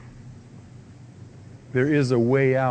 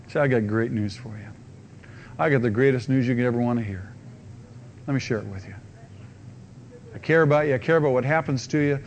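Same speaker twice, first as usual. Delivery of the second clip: gentle witness; faster than usual. Acted. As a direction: speak like a friend who truly cares. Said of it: "to go and tell them".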